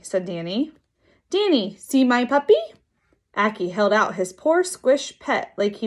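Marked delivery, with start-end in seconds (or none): 1.3-2.6 higher, lightly voiced child; a hint of an eager kid; little kid. A narrator's reading. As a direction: show it off like a small child. Kid shows off his puppy.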